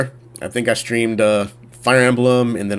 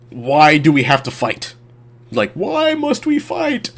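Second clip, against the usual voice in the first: whiny pleading; 4 semitones higher, slower than usual. Retold or imitated. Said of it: "their whole thing was".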